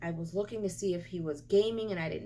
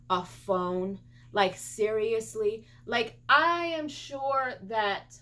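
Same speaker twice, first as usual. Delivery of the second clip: slow, deliberate, punched insults at the thief; indignant scolding; slower than usual. Real, not acted. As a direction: spell out each insult slowly, fed up.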